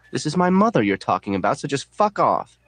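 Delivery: high, emphatic telling-off; indignant anger. A narrator's reading. Marla defending her mother to narrator, high and indignant. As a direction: defend it hotly, slowing on the curse.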